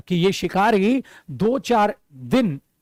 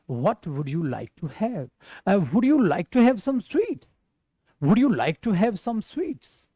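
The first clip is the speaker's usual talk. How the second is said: lovingly; much slower than usual. Shown as a demonstration. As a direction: ask sweetly, like you care. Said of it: "प्यार से पूछना है यार". (प्यार से, नरमी से पूछना)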